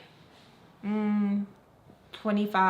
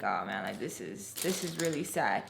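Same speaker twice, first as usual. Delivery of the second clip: retold sadness; 12 semitones lower, 8 dB quieter than usual. Reacting to hearing someone ache crying.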